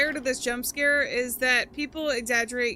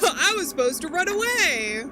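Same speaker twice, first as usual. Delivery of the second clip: laughing. Real, not acted. Laughs at own mistake.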